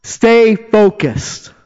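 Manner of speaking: high, loud cheer from the stands; yelling encouragement. Acted. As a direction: yell it out like a supporter urging runners on. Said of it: "they're yelling to us".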